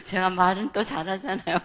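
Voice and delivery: normal talking voice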